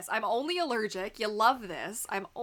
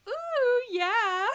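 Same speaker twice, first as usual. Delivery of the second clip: excited ooh; 7 dB louder than usual. Retold or imitated. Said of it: "I was like".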